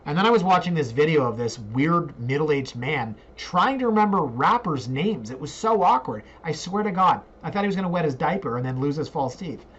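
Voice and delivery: lightly voiced scornful storyteller; mocking impression of an onlooker. Onlooker describing an awkward middle-aged man, lightly mocking impression. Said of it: "That's my impression of someone doing an impression of me".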